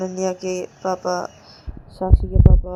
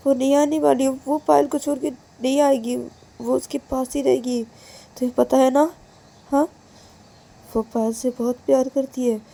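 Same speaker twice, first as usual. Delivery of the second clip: higher, insistent but giving in; raised voice, exasperated acceptance; resigned father; 5 semitones higher than usual. Acted. Father gives in to daughter.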